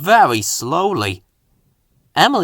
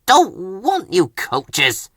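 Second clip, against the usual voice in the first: slow, sulky grumble; slow grumpy complaint; grumpy chuff; 4 semitones higher, much slower than usual. Acted. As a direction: drag it out like a sulking engine. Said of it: "he chuffed".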